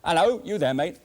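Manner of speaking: mock English caller on the phone; English accent. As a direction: call out like a chummy Englishman. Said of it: "That's the English".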